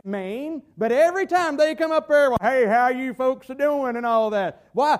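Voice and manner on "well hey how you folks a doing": lightly put-on Southern yokel accent; hammed-up Southern accent. Preacher imitating a movie's idiotic neighbor, mock Southern accent. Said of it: "guess how he talks? Southern".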